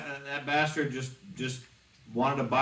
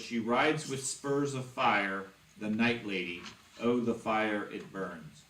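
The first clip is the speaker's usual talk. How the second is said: low haunting voice; slower than usual. Shown as a demonstration. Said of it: "read it all in the spooky voice".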